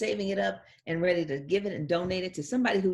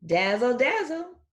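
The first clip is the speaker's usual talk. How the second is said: louder, rising higher dazzle; 6 semitones higher, 6 dB louder, slower than usual. Acted. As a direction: sparkle it out playfully. Playful sound words.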